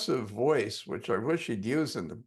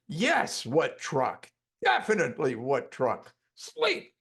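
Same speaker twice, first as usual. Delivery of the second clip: lightly voiced hypnotic command. Hypnotist retelling his trance command to the client, lightly voiced. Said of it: "get it together to say".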